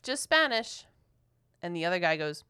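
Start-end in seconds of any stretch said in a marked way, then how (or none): 0.0-0.8 a sharp, high, loud "Nope" that stays firm on "just Spanish"; emphatic retort. Retold or imitated. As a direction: shut him down, firm and loud. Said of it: "And I'm like".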